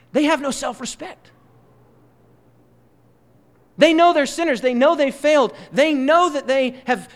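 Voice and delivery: high, loud, impassioned pulpit delivery; full-force preaching. Acted. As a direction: preach it out hard, building the fire.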